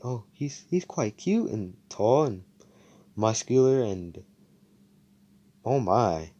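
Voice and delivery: slow, halting admiration; acted infatuated musing; smitten. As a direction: dwell on each quality, lightly swooning. Character admiring her crush in thought.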